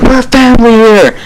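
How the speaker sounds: imitating a man shouting at his son; half-acted angry yell; mock scream. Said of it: "He screams at him".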